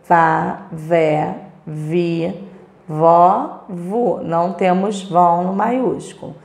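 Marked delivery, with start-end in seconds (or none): 0.1-4.2 each syllable "vá", "vé", "vi", "vó", "vu" said apart, slowly; syllable drill. Shown as a demonstration. Teacher reads the V syllable family to pupils, sounding each out. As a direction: sound out "vá, vé, vi, vó, vu" one by one. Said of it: "Primeiro maiúsculo".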